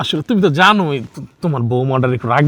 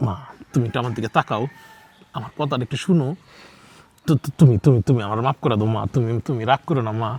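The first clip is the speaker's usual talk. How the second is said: soft, low, stammering apology; gentle pleading; 3 semitones lower, 3 dB quieter than usual. Acted. Son softly begging his upset mother for forgiveness. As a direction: coax her softly to forgive.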